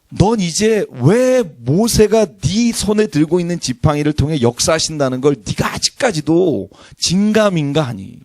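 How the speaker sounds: slow chiding, lightly voiced; a father asking why you still doubt; mild scolding God. God rebuking Moses again. (살짝 꾸짖는 하나님 목소리)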